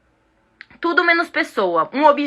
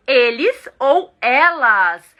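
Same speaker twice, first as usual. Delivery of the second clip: very slow "eles ou elas"; slow teacher gloss; slow clear gloss; 4 dB louder, much slower than usual. Shown as a demonstration. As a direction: spell it out slowly for students.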